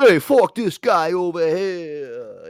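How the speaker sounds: loud, high, drawn-out New York heckle; angry New York accent. Retold or imitated. Yankees fan heckling the visitor, angry New York accent. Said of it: "the angry accents".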